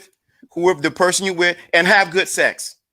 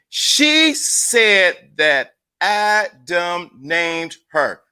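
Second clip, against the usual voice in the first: very slow, word by word; spelled out slowly for the chat; much slower than usual. Shown as a demonstration. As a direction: drag it out so nobody misses it. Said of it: "let's say it for slowly".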